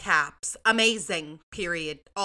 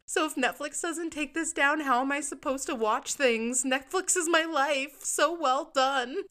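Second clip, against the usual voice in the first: put-on higher, whiny kid voice for the review; mock kid reviewer; 6 semitones higher, 3 dB louder than usual. Host voicing a possibly child reviewer, higher and whiny. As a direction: read it like a pouty child.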